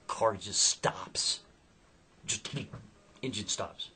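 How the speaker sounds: slow, breathy whispered reveal; dramatic whisper. A narrator's reading. Narrator hushing the listeners as the car dies, slow whisper. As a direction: drop to a hush as the car dies. Sudden breakdown in story.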